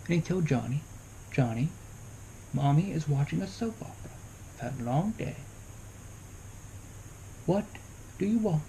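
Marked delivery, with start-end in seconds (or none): 1.3-8.6 calm, measured mom, lightly acted; composed, patient parent voice. Shown as a demonstration. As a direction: answer the child patiently, unhurried, with pauses. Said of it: "Very calm voice".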